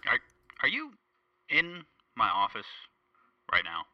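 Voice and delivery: suddenly alarmed the caller is here; startled. Acted. Host startled to find guest in his office.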